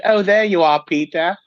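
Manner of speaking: put-on excited little boy from Hook; lost boy quote. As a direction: call out Peter with delight. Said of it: "the little lost boy ... said".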